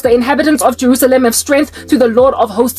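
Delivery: measured Bible reading voice; solemn recital of Zechariah; scripture reading. Acted. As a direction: read it like a prophecy from the pulpit. Reads Zechariah scripture aloud.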